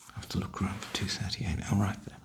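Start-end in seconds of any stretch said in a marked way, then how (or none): 1.7-2.2 voice cracking. Real, not acted. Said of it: "My voice cracked then".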